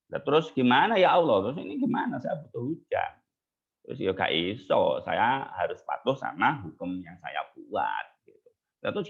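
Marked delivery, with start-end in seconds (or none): 0.1-3.1 rising, pleading voice, louder at first; pleading prophet. Acted. Musa begging God for rain, anxious and rising. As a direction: press God anxiously for an answer.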